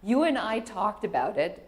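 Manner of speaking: put-on a little girl calmly comforting her mom; imitating calm daughter. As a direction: daughter reassuring mom on the first school day. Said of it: "she says".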